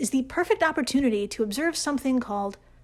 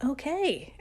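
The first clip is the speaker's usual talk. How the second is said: amused laugh; 6 semitones higher than usual. Real, not acted. Reacting to AI voice.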